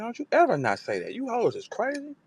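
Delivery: high mock voice of a cocky female rapper; high, boastful mock female rapper; imitating a rapper. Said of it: "she said".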